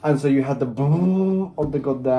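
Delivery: excited. Real, not acted. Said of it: "I'm getting too excited".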